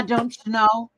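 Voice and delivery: put-on playful touch of Minnesota accent. Former Minnesotan showing how she talks around Minnesotans, Minnesota accent. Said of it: "I start talking like them".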